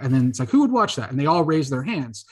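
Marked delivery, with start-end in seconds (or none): 0.5-1.1 higher, mildly raised retold question; calling out to crowd. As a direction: imitate someone putting it to a whole crowd. Author appealing to the crowd.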